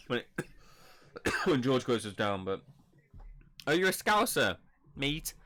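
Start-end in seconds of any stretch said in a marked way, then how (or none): 3.7-5.3 put-on Scouse accent. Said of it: "what do you think of my Scouse accent".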